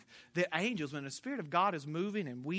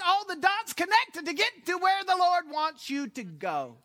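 louder, higher preaching crescendo; full-force preaching; 10 semitones higher, 7 dB louder than usual. Acted. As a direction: build it up like a revival preacher.

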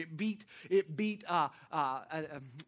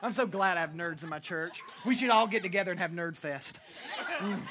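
ordinary delivery

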